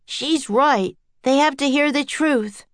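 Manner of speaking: lightly yelled backing of a friend; mild yell. A narrator's reading. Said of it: "yelled Jack".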